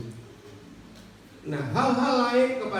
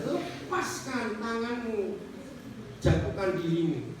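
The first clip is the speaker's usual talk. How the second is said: voice of God; 4 semitones higher, slower than usual. Acted. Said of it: "Tuhan bicara kepada dia".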